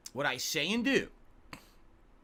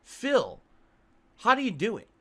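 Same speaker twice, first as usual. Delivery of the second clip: higher, louder imitation of a frazzled girl; stressed classmate; 6 semitones higher, 5 dB louder than usual. Retelling a high school classmate's question, in a mildly higher, louder mock voice. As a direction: mimic the anxious classmate asking. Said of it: "the girl turns to me and she says".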